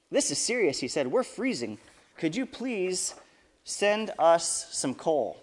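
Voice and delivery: lively storybook reading with voiced quotes; storyteller voice for kids; reading to children. A narrator's reading. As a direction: read it out to the kids at church.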